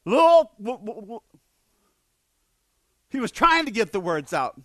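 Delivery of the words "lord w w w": panicked groan. Retold or imitated. Preacher playing Peter sinking, panicked and unable to speak. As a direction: choke on the words in panic. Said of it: "in a panicked tone".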